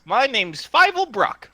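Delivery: small, high tinny voice; Fievel Brock. Acted. Tree voice gives its name to strangers, tinny. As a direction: introduce yourself in a high little voice. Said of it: "tinny voice comes from the tree".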